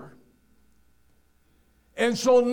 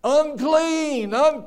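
loud leper's cry of unclean; calling out; 6 semitones higher, 5 dB louder, much slower than usual. Retold or imitated. Preacher voicing a leper warning people away, loud call. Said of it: "had to holler out".

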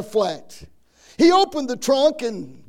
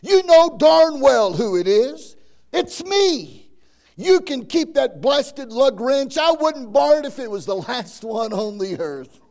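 angry outburst; 3 dB louder than usual. Acted. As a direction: vent the built-up fury at the door. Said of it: "hot with anger, the salesman called out".

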